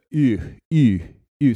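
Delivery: U rounded like French u, lips pushed forward; French U sound. Shown as a demonstration. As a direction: repeat U, lips tight and rounded. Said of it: "the U".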